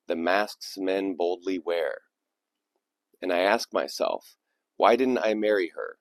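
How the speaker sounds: measured poetry recital with falling line ends; poem reading. Acted. Host reading a listener's poem to his channel, measured recital. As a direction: read it as spoken verse, pausing between lines. Reads a submitted poem aloud.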